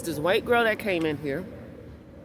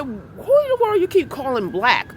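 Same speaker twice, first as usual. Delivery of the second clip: louder, higher confrontation; retold angry challenge; 6 semitones higher, 5 dB louder than usual. Narrator confronting the woman over her taunts, retold with anger. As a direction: call her out, indignant. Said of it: "And I said".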